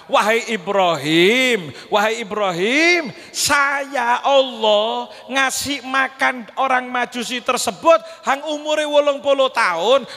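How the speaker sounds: slow, solemn rebuke; solemn divine voice. Acted. Preacher voicing Allah rebuking Ibrahim, slow and solemn. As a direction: speak slowly with grave authority.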